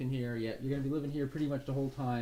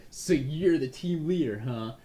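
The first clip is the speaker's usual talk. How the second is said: slow, louder, cocky; smug disdain; 4 dB louder than usual. Acted. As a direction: look down on the new leader. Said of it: "arms crossed".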